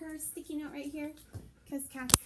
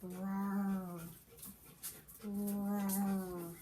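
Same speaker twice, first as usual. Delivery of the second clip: drawn-out lion roar; 4 semitones lower than usual. Pretend. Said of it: "what sound would he make".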